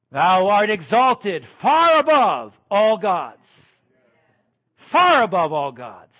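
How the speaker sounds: slow, loud proclamation of the verse; proclaiming loudly. Acted. Preacher exalting God before the congregation, loud slow proclamation. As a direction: boom it out over the congregation.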